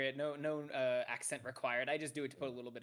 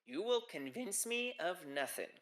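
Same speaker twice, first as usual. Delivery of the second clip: put-on Minnesotan accent; 4 semitones higher, slower than usual. One half of a bickering couple answers the other, Minnesotan accent. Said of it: "a Minnesotan accent".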